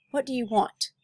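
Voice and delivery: sharp, firm question; demanding. Acted. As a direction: demand it of the stranger. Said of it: "Deja demanded".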